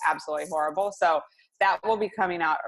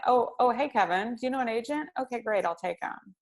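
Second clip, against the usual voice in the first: casual consumer; 6 semitones higher than usual. Retold or imitated. Consumer voiced picking agent casually.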